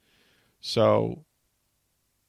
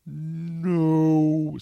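high, loud anguished no; despairing no; 6 semitones higher, 4 dB louder than usual. Retold or imitated. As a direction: cry out no as the door closes. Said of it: "So I'm like".

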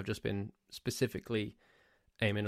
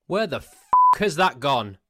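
loud, higher exasperated demand; exasperated outburst; 5 semitones higher, 13 dB louder than usual. Real, not acted. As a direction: burst out in indignation at Costa. Mock outrage at a missing drink.

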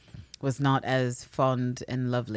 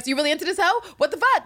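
much higher, incredulous outburst; indignant Mariana; 14 semitones higher, 5 dB louder, faster than usual. Retold or imitated. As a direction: demand it like a jealous lover. Voicing Mariana confronting Anne.

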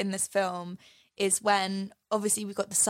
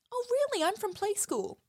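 sarcastic Potato Head; 13 semitones higher than usual. Retold or imitated. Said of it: "Mister Potato Head goes".

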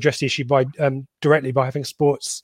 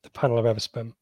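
slow repeat. Shown as a demonstration. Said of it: "what was the question".

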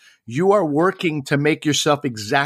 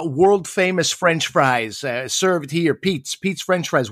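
slow, mocking "world famous French fries"; mock sign reading; 2 semitones higher, slower than usual. Comic mocking a Boston sign's boast. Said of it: "you go to Boston".

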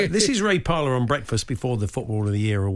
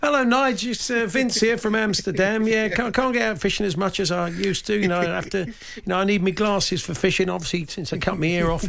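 higher, chatty caller voice as Van Gogh; 5 semitones higher than usual. Pretend. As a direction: play Vincent ringing the radio show. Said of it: "He often phones in".

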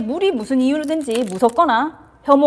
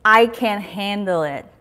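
very slow, each word spaced; slow affirmation; slow and deliberate; 2 semitones lower, much slower than usual. Shown as a demonstration. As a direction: let the line land slowly. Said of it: "뭘까요?".

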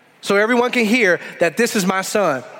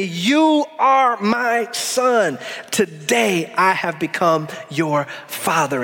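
voice of God; much slower than usual. Acted. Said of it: "He said to me".

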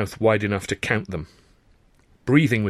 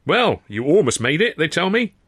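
teasing; 8 semitones higher, 4 dB louder than usual. Acted. Sid teasing the battered narrator.

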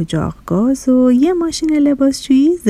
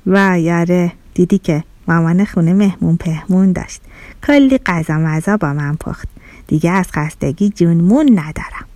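lower-pitched stove, worn out after cooking; tired stove voice; 4 semitones lower than usual. Acted. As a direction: sigh it out as the weary stove. Stove answers the fridge. (صدای خسته اجاق گاز)

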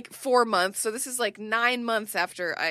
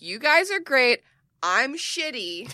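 mock gushing; 3 semitones higher, 4 dB louder, slower than usual. Self-deprecating customer voice.

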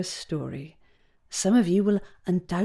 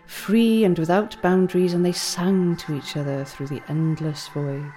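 epic fantasy narrator. Acted. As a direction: tell it like an ancient myth. Teacher tells the eel legend.

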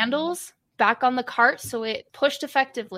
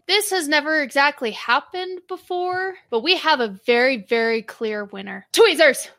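strange tone; 2 semitones higher than usual. Acted. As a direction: announce the winner oddly, then call out the name. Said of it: "he says in a strange tone".

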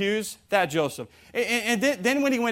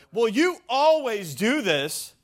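drawn-out, higher-pitched nagging complaint; mock marital griping; exaggerated accusation; 4 semitones higher, slower than usual. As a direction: accuse with a sweeping statement. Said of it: "Extreme statements".

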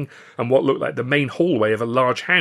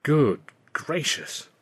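slow, stunned gasp; higher, drawn-out astonishment; 4 semitones higher, much slower than usual. A narrator's reading. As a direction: draw it out, aghast. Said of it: "Alf gasped".

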